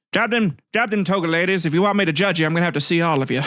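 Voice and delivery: lightly voiced swaggering judge; cheeky Paris role-play. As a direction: order the goddesses about, jokingly. Acts out Paris judging the goddesses.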